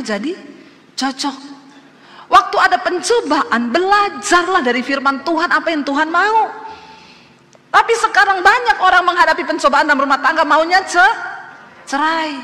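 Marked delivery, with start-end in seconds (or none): 2.3-12.3 loud, raised preaching voice; emphatic preaching. Real, not acted. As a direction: drive it home to the congregation. Preaches at full force. (berkhotbah lantang dan berapi-api)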